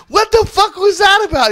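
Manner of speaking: high, loud disbelieving yell; shocked yell. Retold or imitated. Friends shocked at drunk kiss.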